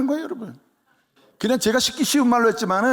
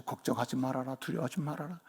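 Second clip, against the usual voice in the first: soft, hushed comfort from God; whisper-soft assurance as God; gentle reassurance; 9 semitones lower, 14 dB quieter than usual. Acted. (하나님처럼 부드럽게 안심시키는 말투)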